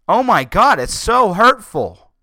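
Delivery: loud, high, drawn-out mock wail; hammed-up hurt, pitch soaring; mock distress. Host mocking outrage over billboards, exaggerated wailing distress. Mocks people offended by billboards.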